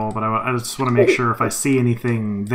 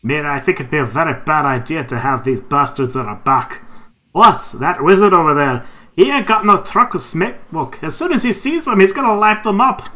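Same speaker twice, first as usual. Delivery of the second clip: dwarf voice; 3 semitones higher, 5 dB louder than usual. Acted. In-character dwarf dialogue.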